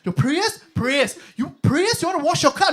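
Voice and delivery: high, loud puzzled "Prayers?"; baffled receptionist shouting back; confused receptionist. Retold or imitated. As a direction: mishear it and jump up in pitch. Receptionist mishears prayers as car wash.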